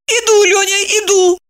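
high weeping woman's voice; tearful reply. A narrator's reading. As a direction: call back while sobbing. Wife answering through tears.

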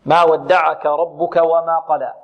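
slow tajwid reading of the verse; measured Quran recitation. Shown as a demonstration. Teacher summing up the verse for pupils, slow tajwid. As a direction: recite ما ودعك with held long vowels.

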